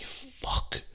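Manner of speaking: hushed, whispered swear; retold pained curse. Man with screw in foot, hushed retold curse. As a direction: let the curse out under your breath.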